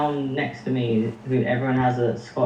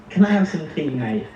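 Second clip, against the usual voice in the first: British accent; 3 semitones higher than usual. Shown as a demonstration. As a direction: demonstrate natural British speech. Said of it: "how to say something in a British accent".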